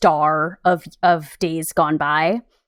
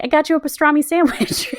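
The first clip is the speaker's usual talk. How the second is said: A famous singer impression; 9 semitones higher than usual. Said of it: "a famous singer literally shows up and is like".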